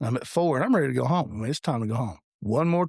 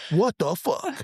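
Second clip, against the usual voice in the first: higher-pitched mock outrage; retold exasperation; 7 semitones higher, slower than usual. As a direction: act out your baffled annoyance from back then.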